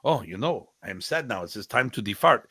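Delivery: lightly accented impression of a joking teacher; Remy Presas. Student retelling his teacher's joke, lightly imitated accent. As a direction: mimic the mentor's accent, P said as F. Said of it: "tell funny jokes like Remy would".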